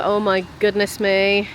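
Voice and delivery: normal talking voice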